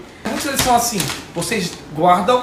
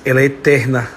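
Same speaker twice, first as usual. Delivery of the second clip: emotional tribute; 3 semitones lower than usual. Real, not acted. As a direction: hold back tears while speaking to her. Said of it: "ficou todo mundo agora chorando".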